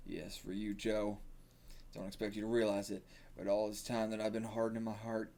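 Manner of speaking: lightly put-on country accent, subdued. Coach confessing to Joe, subdued country accent. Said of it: "like, a country accent".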